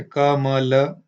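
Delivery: sounding out. Shown as a demonstration. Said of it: "पहले बोलेगा".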